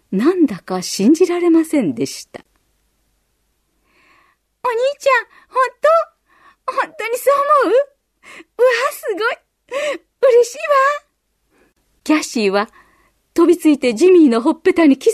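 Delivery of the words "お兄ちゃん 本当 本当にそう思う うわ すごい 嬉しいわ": much higher, thrilled little sister; overjoyed at her brother's words; delighted girl. A narrator's reading. Sister thanks brother, much higher delighted girl.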